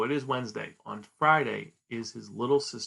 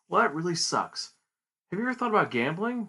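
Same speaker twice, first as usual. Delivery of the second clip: sly tempting stranger; 6 semitones higher, 3 dB louder than usual. Retold or imitated. Shady stranger pitches gambling.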